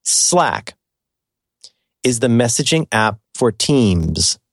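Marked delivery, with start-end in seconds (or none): 2.0-4.4 slow, deliberate "teams" with a clear long vowel; careful pronunciation. Shown as a demonstration. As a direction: spell out "teams" so it cannot be misheard. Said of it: "So I'm gonna try and say this".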